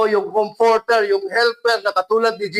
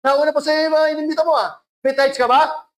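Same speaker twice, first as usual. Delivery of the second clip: scolding pastor; 5 semitones higher, faster than usual. Retold or imitated. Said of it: "pastor na nakaganon sa pulpito".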